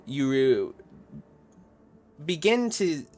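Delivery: slow, measured scene setting; game master narration. A narrator's reading. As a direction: draw out the ominous tale with pauses.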